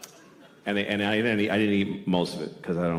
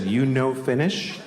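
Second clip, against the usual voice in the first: slow imitated Japanese accent, rising at the end; waitress asking in a Japanese accent; 3 semitones higher, slower than usual. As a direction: stretch out "Finnish" like a Japanese waitress. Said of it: "I have to do the accent".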